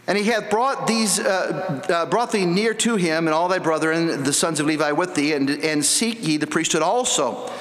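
scripture reading. Acted. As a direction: read the verses out like holy writ. Preacher reads scripture aloud.

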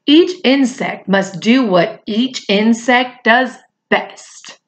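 rally the friends with a high cry; shouted call. Acted. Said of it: "shouted out".

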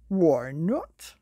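gruff wolf voice. Acted. Big Wolf challenges Herb.

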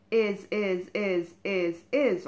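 loud repeated snarl; loud, relentless snarl. A narrator's reading. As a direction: snarl each word, loud. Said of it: "He wasn't simply snarling".

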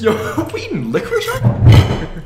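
high, loud, laughing disbelief. Real, not acted. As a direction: laugh through the question. Amused at the food.

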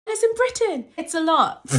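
high, loud, breathless excitement; overwhelmed. Real, not acted. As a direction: blurt it out overwhelmed.

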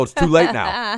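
acting out being so mad; retold anger. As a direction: cut him off, fired up. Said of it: "I was so mad".

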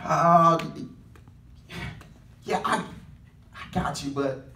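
low, soft hedging salesman backing off the deal; hesitant salesman. Retold or imitated. Salesman to Brother Durrell, trailing off and hesitant. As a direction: mumble it like a salesman dodging.

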